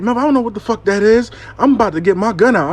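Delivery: fast, high-pitched alarmed rush; acted panic. Client tells Mel she's getting her gun, acted panic. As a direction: imitate a client rattled and talking fast.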